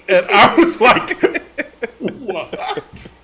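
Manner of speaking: high laughing feigned innocence; laughing, caught out. Retold or imitated. Caught by the editor, laughing innocent what. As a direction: play dumb through laughter.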